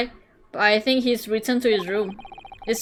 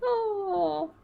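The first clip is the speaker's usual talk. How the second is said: sly greeting; 5 semitones higher, slower than usual. Acted. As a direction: greet him like a creepy old friend. Friend greeting warmly.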